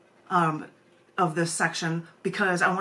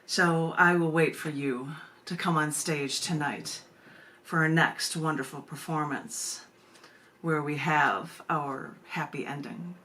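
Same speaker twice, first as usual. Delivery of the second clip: lower, measured poem reading; 3 semitones lower than usual. Acted. Reads her poem aloud.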